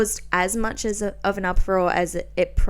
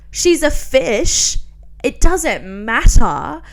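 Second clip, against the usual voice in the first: exasperated; 4 semitones higher, 9 dB louder, slower than usual. Real, not acted. Exasperated rebuttal to critics.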